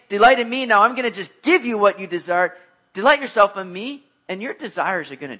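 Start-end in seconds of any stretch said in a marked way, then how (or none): 0.1-2.6 raised, louder mocking quote; lightly voiced God handing out wishes. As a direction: parody the wrong idea of God's promise. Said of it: "I don't think the Lord is saying".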